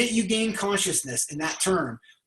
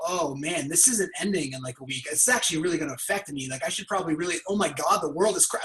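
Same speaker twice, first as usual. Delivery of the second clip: sinking worry; 3 semitones lower than usual. Retold or imitated. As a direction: let the voice sink into anxiety. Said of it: "you can hear it".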